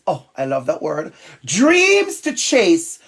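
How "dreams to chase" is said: slow, measured picture-book read-aloud; reading to children. Acted. Teacher reading a school rhyme to listeners, slow read-aloud. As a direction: draw out each phrase, pausing between lines.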